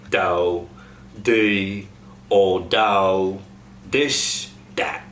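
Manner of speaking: "dat" with a hard D for TH; voiced TH as D. Shown as a demonstration. Coach demos TH to D to cast. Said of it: "goes to duh".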